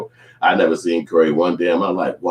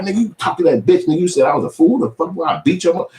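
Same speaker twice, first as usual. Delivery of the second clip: mock accusing; 10 semitones higher, 4 dB louder, faster than usual. Accusing friend.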